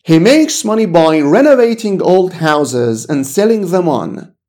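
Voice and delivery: very slow, careful English sentence; slow model reading. Shown as a demonstration. Teacher to student, reading the example very slowly. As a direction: read it word by word for the learner. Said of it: "چه جوری؟".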